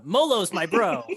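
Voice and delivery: high, loud kobold voice on the edge of laughter; defiant kobold. Acted. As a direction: belt it out as a proud little creature. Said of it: "this kobold says".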